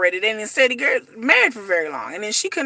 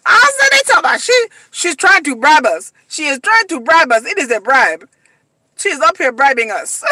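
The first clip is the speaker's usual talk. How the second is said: laughing while talking; 3 semitones higher, 5 dB louder than usual. Real, not acted. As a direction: still cracking up as she repeats it. Cracking up retelling the bribe.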